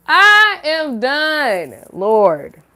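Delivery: slow, high laughing; I am done. Real, not acted. To her viewers, slow high laughing giving up. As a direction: drag it out, giggling helplessly. Cracking up.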